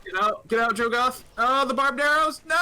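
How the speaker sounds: urgent high shout; excited. Real, not acted. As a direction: yell at the screen, urgently. Urging a unit to flee.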